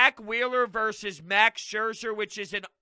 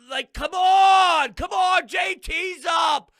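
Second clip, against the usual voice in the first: loud, drawn-out, much higher plea; frustrated yell; 8 semitones higher, 9 dB louder, slower than usual. Real, not acted. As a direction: beg the team through gritted teeth, slowly. Fan pleading as the rally dies.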